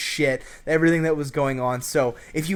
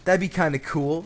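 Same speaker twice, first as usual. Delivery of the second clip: cool and distant; 4 semitones higher, slower than usual. Retold or imitated. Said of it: "played, like, you know, the cool, distant guy".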